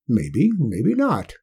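put-on a stubborn backwoods old-timer; old country man. Old Hark voiced by narrator.

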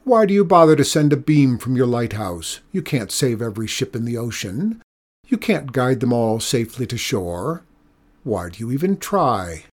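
loud, calling up to the ledge; shouted up. Acted. Old woman shouting up at the lighthouse keeper, loud. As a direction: shout it up at him. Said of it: "shout up".

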